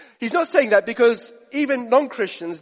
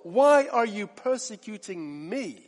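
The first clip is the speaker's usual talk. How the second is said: voice of Jesus calling; 3 semitones higher, slower than usual. Retold or imitated. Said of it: "he hears this voice saying".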